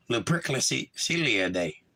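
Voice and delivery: Lupercilia spelled out slowly, syllable by syllable; working out a strange word aloud, slow; slow sounding out. Shown as a demonstration. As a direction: sound out Lupercilia slowly, trying to get it right. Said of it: "Happy Lupercilia Day".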